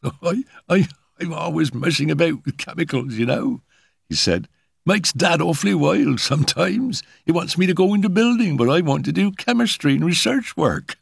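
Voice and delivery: lightly voiced awkward boy chatting; a young lad explaining his hobby to a guest; eager young lad. A narrator's reading. Lad character voice.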